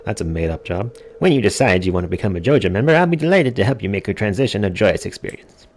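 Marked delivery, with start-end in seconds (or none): 1.2-5.7 Morris. Acted. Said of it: "This fellow over here is named Morris".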